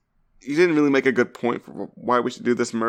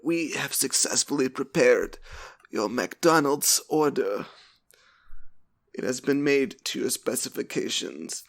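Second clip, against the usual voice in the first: formal robotic clerk; 3 semitones higher, 3 dB quieter, slower than usual. Retold or imitated. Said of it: "And they're like".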